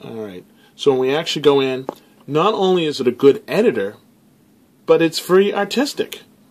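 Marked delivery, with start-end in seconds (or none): 4.9-6.2 high, surprised, genuinely taken-aback tone. Praising a video editor app on the phone: surprised voice. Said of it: "I say that in a surprised voice".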